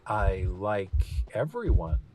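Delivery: slow, strained answer; hesitant. Acted. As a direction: force the words out. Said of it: "Linus managed to say".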